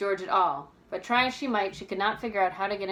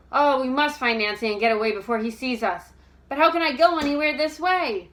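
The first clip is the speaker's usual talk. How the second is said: anxious; 5 semitones higher, 7 dB louder than usual. A narrator's reading. Bess urgent about Hector Keep.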